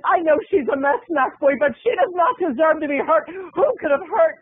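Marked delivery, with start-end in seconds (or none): 0.0-3.3 higher, pleading voice; worried audience member. Retold or imitated. Audience member begs Snack Boy that Jane is unhurt. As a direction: plead on Jane's behalf. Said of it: "you're saying to yourself".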